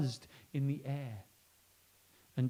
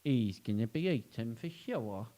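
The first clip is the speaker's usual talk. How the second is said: iguana; slower than usual. Acted. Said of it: "said an iguana".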